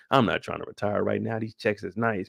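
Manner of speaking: a fed-up precinct captain barking orders at his detectives; grumbling boss laying down the law, tired and irritated; captain chewing out his squad about Burke; police captain. Acted. In-character captain rant to detectives.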